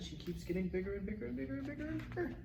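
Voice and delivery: high, fast excited babble; excited rush. Real, not acted. Child excitedly recounts growth.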